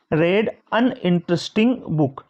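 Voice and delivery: slow, with "an" given weight; stress on an. Shown as a demonstration. Teacher stressing the article for students. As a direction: lean on "an" before "interesting". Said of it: "अब देखो यहाँ पे".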